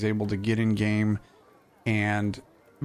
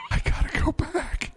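high whiny mock sobbing; whiny crying. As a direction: whine it like a crying kid. Mock whining about work.

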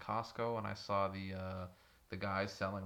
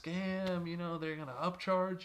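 mock angry dad; 7 semitones higher, slower than usual. Dad voiced yelling about scam.

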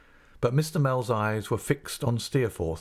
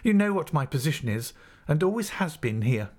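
dignified assistant master; 7 semitones higher than usual. Acted. Mell answers with dignity.

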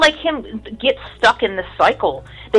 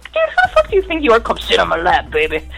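mock swagger voice, pitched up; mocking Lavelle.

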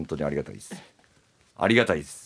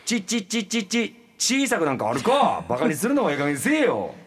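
high sputter into indignant outburst; stutter, then burst out in protest; stung stammering; 6 semitones higher, 4 dB louder than usual. Acted. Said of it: "おちょくられてるのを出すっていう演技".

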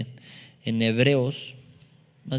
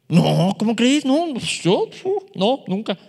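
stammering denial; 6 semitones higher, 4 dB louder, slower than usual. Acted. Peter stammering denial acted.

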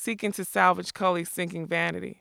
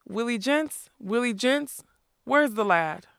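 calling out; 4 semitones higher than usual. Acted. Captain calls out for his minstrel.

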